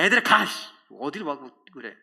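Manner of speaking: loud, sudden acted dismissal; mock-angry burst at children; brusque shooing. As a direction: chase the kids off sharply. Acts out shooing children away.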